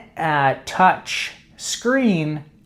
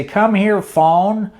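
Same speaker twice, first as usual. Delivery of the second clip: slightly raised summoning call; 4 semitones higher, slower than usual. Acted. Lazy owner summoning the phone by name, calling out. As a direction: call the phone over to you.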